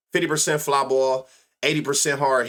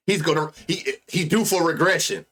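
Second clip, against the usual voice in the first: mock know-it-all; 3 semitones higher than usual. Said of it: "I learned a new word".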